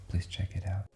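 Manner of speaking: hushed ASMR whisper; soft spa whisper. Acted. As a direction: breathe it out softly. ASMR reviewer whispers sign-off.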